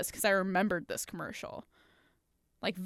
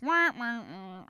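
Debbie Downer trombone; slower than usual. Retold or imitated. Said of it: "that character from S N L".

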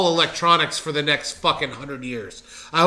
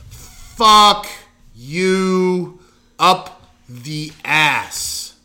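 loud, then very slow dragged curse; a loud ranting curse, drawn out at the end; angry outburst; 4 dB louder, much slower than usual. Real, not acted. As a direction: blast it out then stretch every word. Angry rant about participation medals.

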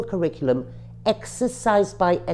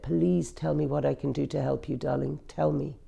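tender plea; 6 dB quieter than usual. Retold or imitated. Husband's tender plea, retold.

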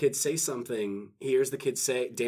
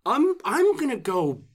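nervous stammer; 9 semitones higher, 4 dB louder than usual. Retold or imitated. Henchman stammering, retold.

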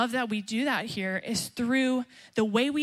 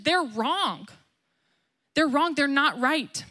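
retold yell; 3 semitones higher than usual. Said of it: "he yelled to Saul".

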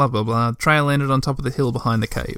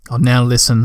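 stern; 4 dB louder than usual. Acted. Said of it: "replied Tutiki sternly".

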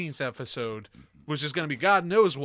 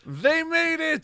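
excited; 13 semitones higher, 5 dB louder, much slower than usual. Real, not acted. Celebrating Kickstarter success.

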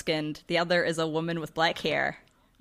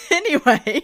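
louder, high sing-song Anyway; mock-grand anyway; 8 semitones higher, 7 dB louder, slower than usual. The group after a weird tangent, hammed-up Anyway. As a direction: sweep the word Anyway up theatrically.

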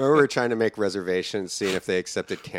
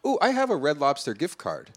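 mock excitement; 10 semitones higher than usual. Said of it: "it's like".

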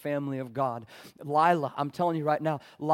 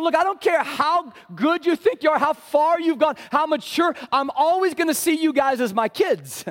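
high, loud fatherly promise; God speaking as a parent; 11 semitones higher, 7 dB louder than usual. Retold or imitated. Pastor voicing God to the church, high and loud. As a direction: call out like a father claiming his kids. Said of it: "So God's going".

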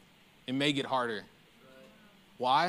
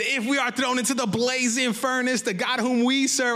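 raised, fired-up Bible reading; going off; 5 semitones higher than usual. Retold or imitated. Preacher reading the defiant reply, fired up and high. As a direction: read it like they're really going after the king. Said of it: "Ooh, they're getting it".

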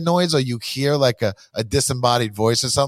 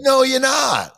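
firm refusal; 12 semitones higher, 3 dB louder, slower than usual. Retold or imitated. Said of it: "I was like".

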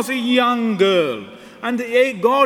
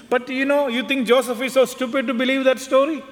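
quicker, higher-pitched protest; incredulous questioning; 3 semitones higher, faster than usual. Acted. Mary questions the angel about Joseph believing her, incredulous. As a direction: challenge the angel in disbelief.

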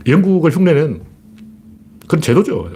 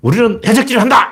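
high mock proclamation; acted royal declaration; king's open declaration; 6 semitones higher than usual. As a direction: announce it proudly, voice pitched up. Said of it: "영국 왕이".

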